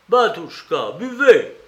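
high, loud, pressing exclamation; urgent urging. A narrator's reading. Investigator rushes over with the carafe, urgent and high-pitched. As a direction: urge him to drink at once. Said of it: "murmura-t-il en s'approchant vivement".

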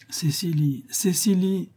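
whispered, pleading call of her name. A narrator's reading. A lovesick notary whispers through the grate, pleading. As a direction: breathe her name, begging. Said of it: "d'un ton suppliant".

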